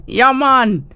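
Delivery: a hint of a Jamaican accent; mock Jamaican. Co-host answering the host in Jamaican. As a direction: echo it back in Jamaican. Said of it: "love a Jamaican accent".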